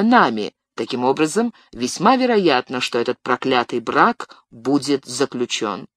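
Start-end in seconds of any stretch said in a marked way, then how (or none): 2.8-5.9 voice failing. Acted. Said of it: "опять голос вам изменяет".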